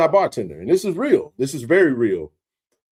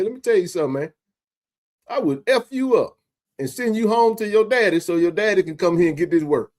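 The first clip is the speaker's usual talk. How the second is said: retold threat; 5 semitones higher than usual. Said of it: "I was hot".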